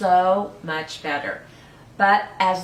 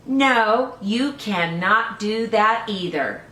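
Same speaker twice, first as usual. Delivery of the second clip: louder, higher stern grandpa refusal; firm grandpa no; 3 semitones higher, 4 dB louder, slower than usual. Acted. Grandpa forbidding decorating the house, loud and firm. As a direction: shut it down as grandpa.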